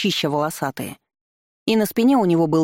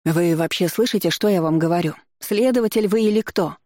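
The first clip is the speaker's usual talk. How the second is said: rising to a shriek; 3 semitones higher than usual. Acted. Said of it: "Голос ... перешёл на виск".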